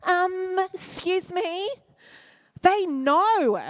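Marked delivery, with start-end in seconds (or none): 0.0-1.7 self-righteous Bible-basher. Acted. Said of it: "coming in with your Bible going".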